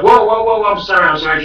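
high loud flustered apology; panicked apology. Retold or imitated. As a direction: back off fast, high and loud. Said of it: "She's like".

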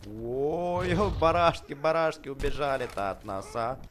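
high, loud laughing "барашки"; laughing excitement. Real, not acted. Sheep run from his dragon, laughing loud and high. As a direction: laugh out the words in delight.

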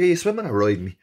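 high, loud outraged yell; retold furious challenge at a rival swimmer; angry shout. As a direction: demand an answer, yelling. Retold row climax.

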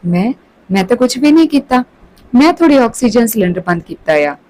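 blurting it out in a nervous rush; panicked blurt. Acted. Caught officer blurts a confession, mildly panicked. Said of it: "ਘਬਰਾਹਟ ਵਿੱਚ ਆਪ ਹੀ ਬੋਲ ਦਿੰਦਾ".

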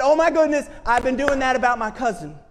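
high, loud oh my goodness of a sudden realization. Retold or imitated. Preacher voicing a man's realization, surprised. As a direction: burst out as it dawns on you.

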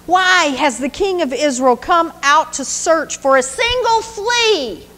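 a wronged son pleading with the king. Acted. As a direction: beg the king to see reason. David's anguished plea to Saul.

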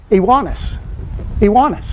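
"Ioannis" said as ee-WAH-nis; pronunciation demo. Shown as a demonstration. Teacher showing a class the Greek for John, pronunciation demo. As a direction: say "Ioannis" with a W glide, stress on WAH. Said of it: "it's spelled I O A N N E S".

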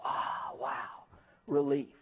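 mock relief. Mocking inspirational poster reaction.

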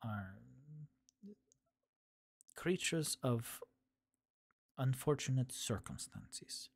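slow mix of Middle Eastern and Russian, lightly done; a hint of swirled Eastern European accent; rat folk accent. Shown as a demonstration. Demoing her rat family voice for chat, a light mixed accent. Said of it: "where they talk like this".

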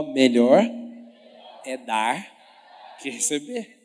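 low, slow, loud savoring of each word; drooling declaration. Shown as a demonstration. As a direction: say it like you're drooling over it. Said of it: "Fala assim comigo, ó".

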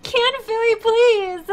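loud, high, slow tearful plea; real crying. Real, not acted. Streamer overwhelmed by a donation, crying. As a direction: plead through overwhelmed tears. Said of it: "I'm sorry I'm crying".

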